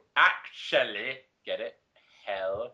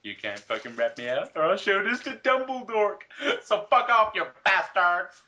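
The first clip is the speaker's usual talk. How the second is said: snarky threat; 5 dB louder than usual. Retold or imitated. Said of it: "I snarked".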